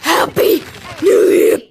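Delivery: hushed, breathy happy new year; whispered. Real, not acted. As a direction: whisper it under your breath. Whispered after being mocked.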